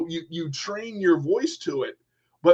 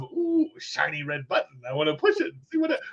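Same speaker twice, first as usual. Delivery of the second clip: put-on childish excitement. Child tempted by button.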